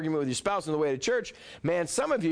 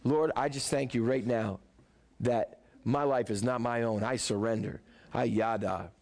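lower, hushed prayer of surrender; sample surrender prayer; 5 semitones lower than usual. Retold or imitated. Preacher models a believer's surrender, hushed prayer. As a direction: pray it like laying everything down. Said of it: "you gotta get to the place where".

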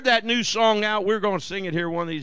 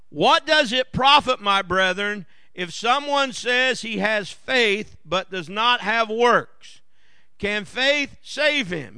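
scripture reading; slower than usual. Acted. Reads scripture aloud.

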